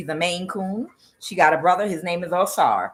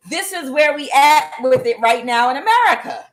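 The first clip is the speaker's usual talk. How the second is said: laughing repeat; 8 semitones higher, 5 dB louder than usual. Real, not acted. Repeats punchline, laughing, higher.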